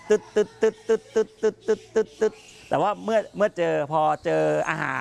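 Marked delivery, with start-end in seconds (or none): 0.1-2.3 string of quick vocal tick sounds; imitated bat clicks. Shown as a demonstration. Guide showing kids the bat's hunting call, rapid mock ticks. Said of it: "ไม่ได้ดังตึ๊ดตึ๊ด".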